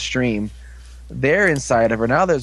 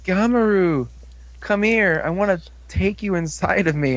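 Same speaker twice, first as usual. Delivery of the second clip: creepy summoning; 5 semitones higher than usual. Retold or imitated. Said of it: "she's like".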